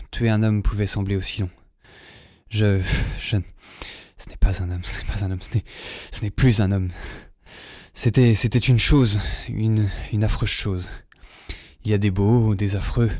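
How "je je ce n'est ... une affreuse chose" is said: voix basse, hachée, encore sous le choc; il cherche ses mots, ébranlé; choqué, bégayant. Acted. Sous le choc après le meurtre. (ébranlé après le meurtre, il bégaie d'une voix basse et hachée)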